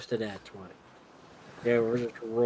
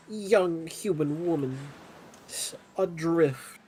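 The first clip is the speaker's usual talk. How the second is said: damsel voice; 4 semitones higher than usual. Acted. Player voices disguised woman.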